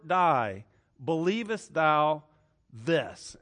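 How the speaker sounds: measured, emphatic Bible reading; weighty scripture recitation with pauses. Acted. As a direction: proclaim the verse, drawing out the key words. Reads scripture aloud.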